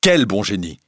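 startled outcry, falling away; mild bewildered cry; exclaiming. A narrator's reading. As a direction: burst out with the question. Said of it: "s'écria le pauvre Raoul".

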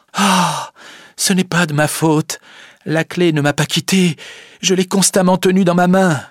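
high, upset self-defence; distressed protest. Acted. Rosa defends herself, distressed. (protestation affolée, voix aiguë)

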